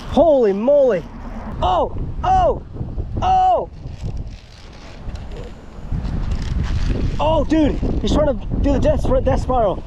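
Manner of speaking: high hyped-up shouting; gym bro. Real, not acted. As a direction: cheer like you just won. Landing the gator, cheering.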